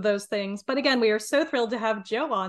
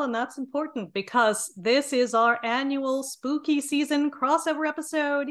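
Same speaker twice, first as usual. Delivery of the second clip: ordinary talk, nothing marked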